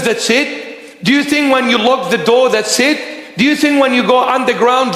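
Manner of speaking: high, searching call from God. Acted. God calling to those who sin in secret, high and searching. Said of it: "The Lord is saying".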